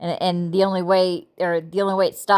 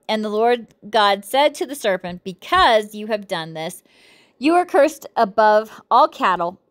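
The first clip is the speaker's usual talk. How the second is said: measured, deliberate Bible reading; reading scripture aloud; 2 semitones higher than usual. Acted. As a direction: read the verses out phrase by phrase.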